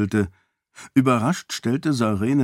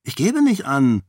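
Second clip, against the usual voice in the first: huffy; 4 semitones higher than usual. Acted. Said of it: "versetzte Kaise eingeschnappt".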